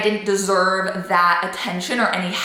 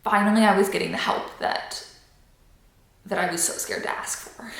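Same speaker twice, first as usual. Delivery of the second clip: getting emotional; 4 dB quieter than usual. Real, not acted. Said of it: "oh my God, I'm getting emotional".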